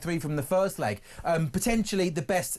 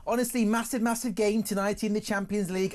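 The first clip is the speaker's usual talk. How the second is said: higher-pitched, hammed-up Scouse attempt; bad Scouse accent; 5 semitones higher than usual. Shown as a demonstration. Son of a Liverpool mum attempting Scouse on request. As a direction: have a poor go at Scouse. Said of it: "I'm doing the Scouse accent".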